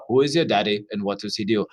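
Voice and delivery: lightly done movie character impression; movie line impression. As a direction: quote the movie line in a gruff low voice. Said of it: "who I just did an impression of".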